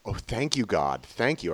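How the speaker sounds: hushed thankful murmur; soft grateful thanks. Retold or imitated. Recalling his grateful prayer during the experience, hushed and thankful. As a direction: breathe out thanks, softly. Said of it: "So I was like".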